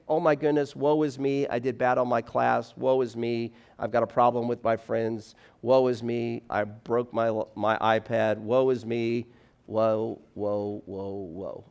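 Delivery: whiny woe-is-me voice, fading down to nothing; mock self-pity. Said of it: "because we're wired to think".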